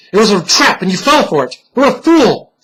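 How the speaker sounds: a touch of bitter anger; self-scolding. Acted. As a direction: curse yourself for the blunder. Trayson berates himself, louder.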